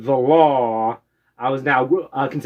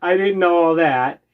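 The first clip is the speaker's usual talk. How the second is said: retold shock; 2 semitones higher, much slower than usual. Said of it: "the expression on my face".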